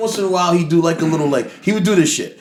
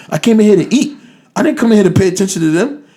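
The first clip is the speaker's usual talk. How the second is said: higher-pitched retold complaint; mildly indignant imitation of a friend; indignant refusal; 5 semitones higher, faster than usual. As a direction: push back, pitch lifted. Chase refuses to mind drunk strangers.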